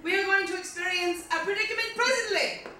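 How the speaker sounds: slightly bad British recital; quasi British accent. Comic recites a rapper's lyrics to audience, slightly bad British accent. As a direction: read it as poetry in mock-British English. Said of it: "slightly bad British accent".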